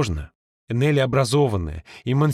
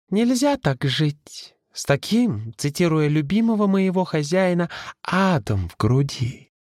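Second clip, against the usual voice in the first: put-on musing old servant; 2 semitones higher than usual. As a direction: muse on it slowly. Ghost's slow philosophical remark.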